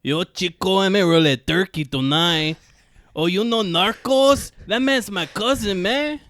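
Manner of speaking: exaggerated LA Cholo accent bragging about Narcos. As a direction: act a swaggering Cholo from LA. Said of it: "that's the L A accent".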